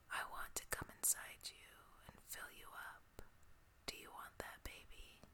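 very soft, intimate breathy whisper; gentle whisper. Acted. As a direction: barely breathe it into an ear. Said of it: "and whisper gently".

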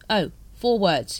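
slow, mildly weary reply; a touch of resigned tiredness, slowed down. A narrator's reading. Vimes decoding the librarian's charades, weary. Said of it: "he said wearily".

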